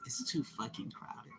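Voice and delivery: hushed, slow, stressing TOO; whisper. Real, not acted. Whispering to the camera that Manhattan is too crowded. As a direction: breathe it out low and slow.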